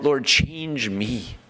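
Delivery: slow, pleading cry to God; slow, high pleading prayer. Retold or imitated. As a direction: stretch each word out, begging to be changed. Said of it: "crying out".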